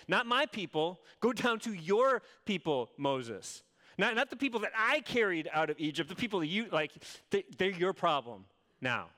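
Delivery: mildly hammed-up divine exasperation; exasperated God. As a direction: push them off onto Moses, irritated. Preacher voices God disowning people.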